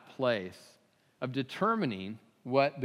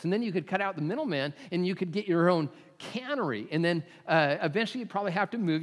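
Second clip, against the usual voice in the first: a hint of a pushy salesman, higher and fast; eager businessman; 5 semitones higher than usual. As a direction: rattle off the big plan like a keen businessman. Pushy businessman pitching to fisherman.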